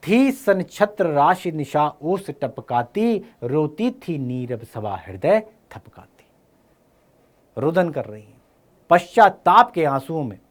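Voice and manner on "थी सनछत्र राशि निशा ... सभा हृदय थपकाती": slow, drawn-out verse reading; measured poetic declaiming; poem recitation. Acted. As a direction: recite it line by line, unhurried. Recites the poem being taught.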